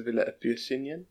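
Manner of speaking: Villa Epicenian pronounced the Spanish way; Spanish pronunciation. Shown as a demonstration. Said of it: "we actually pronounce it in Spanish".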